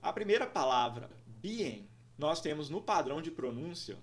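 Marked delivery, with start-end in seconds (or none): 1.4-1.9 "being" in two syllables, the first stressed; teacher's model "being", stressed at the front. Shown as a demonstration. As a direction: say "being" as BEE-ing, leaning on BEE. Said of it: "primeira sílaba é uma sílaba estressada".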